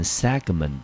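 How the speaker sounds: SEGMENT said slowly, weight on SEG; first-syllable stress. Shown as a demonstration. Teacher showing students how to read segment, stressed on SEG. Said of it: "注意哦，重音节呢".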